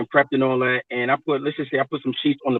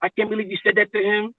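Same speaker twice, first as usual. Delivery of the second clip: shocked nurses; 5 semitones higher than usual. Retold or imitated. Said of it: "all the nurses looked at me like".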